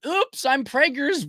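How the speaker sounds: high, slow put-on oopsie; mock pregnancy announcement. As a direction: imitate a falsely innocent announcement in a high voice. Acts out woman announcing pregnancy.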